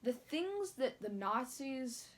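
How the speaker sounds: slow, holding back tears; choked up, fighting tears; teary-eyed. Real, not acted. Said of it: "I'm getting a little teary-eyed".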